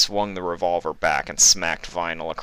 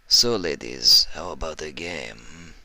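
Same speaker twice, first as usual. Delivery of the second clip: menacing northern heavy. Acted. Iceberg voiced in story.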